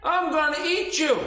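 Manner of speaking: loud, high, sustained bellow; hammed-up, droning giant shout; giant's threat. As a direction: threaten slowly at full giant volume. Giant threatens action figure.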